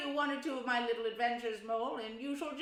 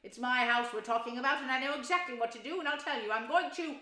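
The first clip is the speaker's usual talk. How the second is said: excited; 4 semitones higher, 7 dB louder than usual. A narrator's reading. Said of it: "getting excited".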